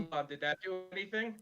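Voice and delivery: robotic, glitchy phone connection. Real, not acted. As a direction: sound like a distorted robot over a bad line. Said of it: "you still sound like a robot".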